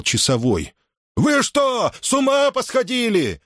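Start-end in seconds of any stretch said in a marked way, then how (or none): 1.2-3.4 high, indignant yell; incredulous shout, pitched high; outraged shout. A narrator's reading. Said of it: "закричал он".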